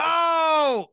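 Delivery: high burst of laughter at the pun; gasp, then laugh it off; sudden laugh after a loud high oh; shocked laugh. Real, not acted. Reacts to the turf joke.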